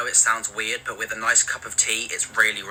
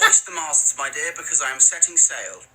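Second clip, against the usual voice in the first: posh British parody; 5 semitones higher than usual. Pretend. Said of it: "saying stuff like".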